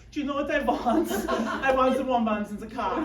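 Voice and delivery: chuckling mock engineer; mock inventor. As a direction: play the inventor thrilled by his idea. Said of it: "who was like".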